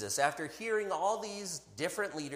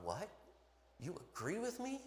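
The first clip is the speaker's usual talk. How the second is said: shocked disbelief; 11 dB quieter than usual. Pretend. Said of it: "His face had to be shock".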